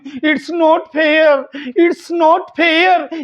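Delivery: very slow, stress on not; slow model phrase. Shown as a demonstration. Teacher voices the wife slowly saying it's not fair. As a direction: drag it out, hit not. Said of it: "पत्नी देखो तीन-तीन वाक्य बोल रही".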